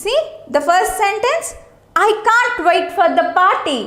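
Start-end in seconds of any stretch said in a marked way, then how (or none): 2.1-3.8 excited. Shown as a demonstration. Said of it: "He is so excited about the party".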